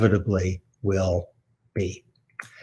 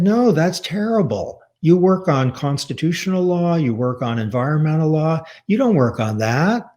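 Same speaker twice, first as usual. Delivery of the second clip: mother's disapproval; 5 semitones higher than usual. Retold or imitated. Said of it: "my mother could be brutal when she was angry".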